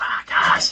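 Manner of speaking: whispered. Testing whether the microphone picks up a quiet voice: whispered. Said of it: "I'll sit over there and whisper it".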